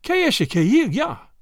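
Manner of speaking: high French cry of alarm; drawn-out, high feigned alarm; loud cry. A narrator's reading. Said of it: "with a loud cry".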